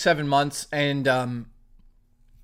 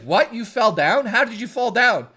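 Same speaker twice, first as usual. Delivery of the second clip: retold startled questions, pitched up; mock incredulity; 4 semitones higher than usual. Mike questions her fall, mock incredulous. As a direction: imitate a friend's disbelief.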